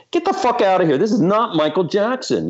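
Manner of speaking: retold indignation. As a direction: re-enact telling off a prank caller. Telling off a supposed prank caller.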